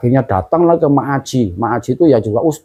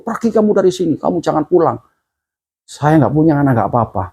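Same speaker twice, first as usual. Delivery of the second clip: retold angry mother; 4 semitones higher than usual. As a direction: act out a mother throwing her child out. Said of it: "ibu saya itu marah, meluap-luap emosi". (menirukan ibu marah mengusir anaknya)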